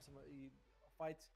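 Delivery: stumbling and restarting words; tripping over the words; stuttering. Real, not acted. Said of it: "I don't know why I'm stuttering so much".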